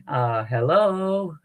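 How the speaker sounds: long, drawn-out tentative hello; naive calling out. Acted. Horror-movie victim walking up to a noise, naively calling out. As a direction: draw the hello out slowly, as a mock horror victim. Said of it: "start walking up to somebody going".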